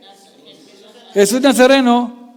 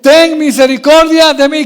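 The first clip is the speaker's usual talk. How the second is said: loud, high, slow acted cry; drawn-out shouted plea, acted; imitated plea; 5 semitones higher, 7 dB louder than usual. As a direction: call out for mercy as the beggar. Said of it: "Cuando dice".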